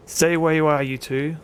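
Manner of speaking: half-hearted shouted command; shouting. Acted. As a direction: call out a warning, easing off at the end. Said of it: "William Mayfield shouts".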